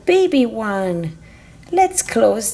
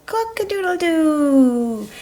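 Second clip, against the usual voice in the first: higher crowing cock-a-doodle-doo; rooster crow; 5 semitones higher than usual. Acted. Parent opening barn door, rooster crow. Toy farmhouse play, rooster call.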